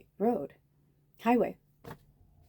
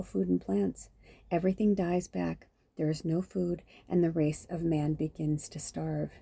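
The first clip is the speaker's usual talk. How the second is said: measured, even myth-reading voice; story narration. A narrator's reading. Reader telling listeners the myth of Persephone, measured narration. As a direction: read it out like a storybook, evenly paced.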